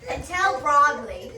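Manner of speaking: put-on light Scottish accent on orders. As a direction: talk to the pixie in Scottish. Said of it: "to Scottish to Cagney English".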